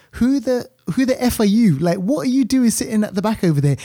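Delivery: a hint of exasperated disbelief; incredulous outburst. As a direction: lightly act out a baffled character confronting a stranger. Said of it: "one of the characters turns around and is like".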